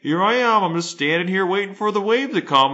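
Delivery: mock bravado facing the wave; cocky dad voice. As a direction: puff up like a dad showing off.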